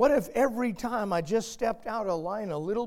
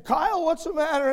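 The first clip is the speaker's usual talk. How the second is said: worried dad; 11 semitones higher, 9 dB louder, faster than usual. Retold or imitated. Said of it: "His dad said".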